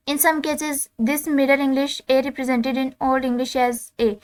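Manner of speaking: reading English text aloud, slow and deliberate; slow textbook reading. Acted. Teacher reading the textbook to students, slow dictation. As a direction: dictate each word slowly to the class.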